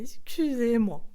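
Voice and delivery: a laughing whispered excuse-me; whispered apology. Real, not acted. Apologising to listeners for her Marseille outburst, whispered. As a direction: breathe the apology with no voice.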